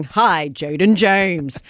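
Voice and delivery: news anchor voice. Retold or imitated. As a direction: greet him like a newsreader. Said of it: "I have to say their name in news anchor voice".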